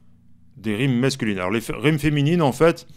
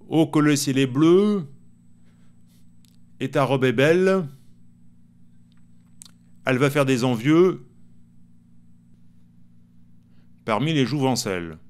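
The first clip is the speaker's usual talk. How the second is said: improvised poem. Shown as a demonstration. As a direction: recite rhymes one line at a time. Improvise un meilleur poème rimé. (poème déclamé lentement, vers par vers)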